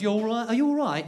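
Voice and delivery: casual British "you all right" as a single word; British slurred greeting. Shown as a demonstration. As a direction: slur it together like a British hello. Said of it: "they do it as one word".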